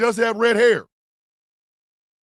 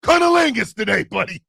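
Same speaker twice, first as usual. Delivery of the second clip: mock announcing; 4 semitones higher, 4 dB louder than usual. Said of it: "my brother E is like".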